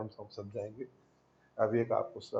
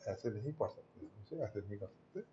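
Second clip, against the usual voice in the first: quieter, lower ऐसे नहीं पढ़ सकते; soft repeat; 3 semitones lower, 12 dB quieter than usual. Shown as a demonstration. Teacher restating the rule to students, soft and low. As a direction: settle the point gently, almost to himself. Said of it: "teacher repeating the point softly".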